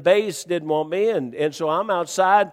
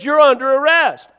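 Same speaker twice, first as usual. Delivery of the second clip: loud, raised arrest announcement; retold officer's insistence; 7 semitones higher, 8 dB louder than usual. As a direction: overrule him as the irritated officer.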